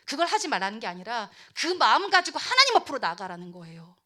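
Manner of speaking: ordinary talk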